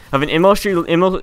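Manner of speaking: tripping over the letters; stuttering. Real, not acted. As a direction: stutter on the acronym. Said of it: "I am just stuttering so much".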